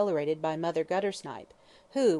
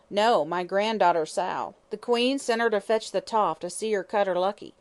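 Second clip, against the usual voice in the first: indignant shriek; 3 semitones higher, 5 dB louder than usual. Acted. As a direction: complain it with outrage. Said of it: "she shrieked indignantly".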